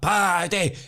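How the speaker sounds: high, drawn-out fan's cry; pure G'd up. Retold or imitated. Starstruck contestant calling to his idol, high excited cry. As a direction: call out the name, thrilled. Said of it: "I was pure G'd up".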